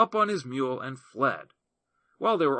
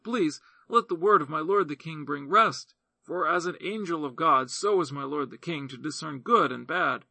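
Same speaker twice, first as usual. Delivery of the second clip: a hint of a higher, earnest woman's voice; lightly voiced widow reasoning; 3 semitones higher, 4 dB louder than usual. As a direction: press the king with humble conviction. Widow flatters the king.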